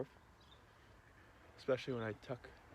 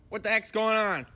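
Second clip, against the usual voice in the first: high dog-talk voice; 11 semitones higher, 14 dB louder than usual. Real, not acted. Farmer greeting his dogs in a high, loud doggy voice.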